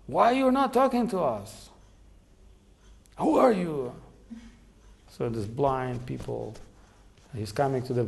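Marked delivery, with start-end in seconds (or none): 0.1-3.9 worried parents asking. Retold or imitated. Blind parents hear silence.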